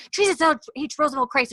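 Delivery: high-pitched mock exasperation; exasperated oath. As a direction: swear in fed-up frustration. Claire swears when nobody helps.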